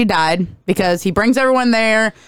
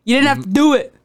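higher-pitched mock exasperation; pleading protest; 5 semitones higher than usual. Complaining to filmmakers who killed her, exasperated pleading. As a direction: plead upward, building from a plain start. Retells own protest at a film death.

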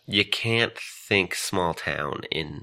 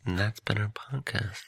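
mock podcast sign-off; 2 semitones higher, 10 dB quieter than usual. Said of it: "I ran out of steam there".

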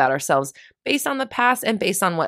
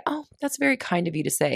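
polite brush-off; 6 dB quieter than usual. Pretend. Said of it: "Take the advice and say".

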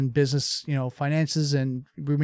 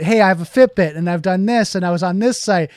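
careless employee; 4 semitones higher, 6 dB louder than usual. Retold or imitated.

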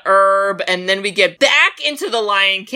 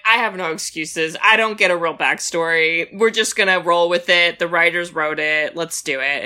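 a tired father giving up on excuses; dead dad's voice; 5 semitones lower than usual. Retold or imitated. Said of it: "And the dad's like".

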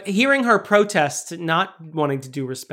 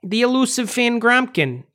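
hammed-up Chicago accent, pitched up; 5 semitones higher than usual. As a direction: announce it as a mock Chicagoan. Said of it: "we haven't done a single Chicago accent".

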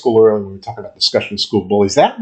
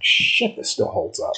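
retold thought; 7 semitones higher, 7 dB quieter, slower than usual. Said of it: "And I'm like".

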